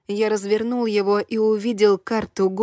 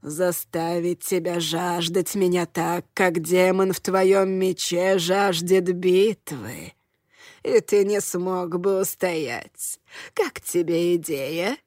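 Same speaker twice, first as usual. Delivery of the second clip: put-on old woman whispering; 2 semitones lower, slower than usual. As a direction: slyly tempt him in a creaky crone voice. Hanshu teasing, creaky.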